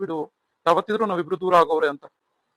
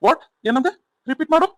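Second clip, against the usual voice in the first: angry demand; 7 semitones higher, 6 dB louder than usual. Acted. Husband challenges wife's insult.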